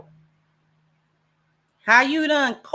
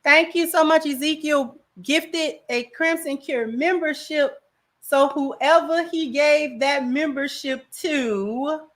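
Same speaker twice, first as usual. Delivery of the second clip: higher-pitched announcer-style thanks; membership shout-out; 7 semitones higher than usual. Acted. Streamer thanking a viewer for gifting a membership, shout-out voice. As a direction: announce the gift in a raised voice.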